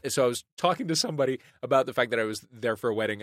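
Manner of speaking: ordinary talk, nothing marked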